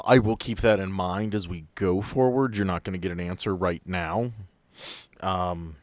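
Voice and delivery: normal talking voice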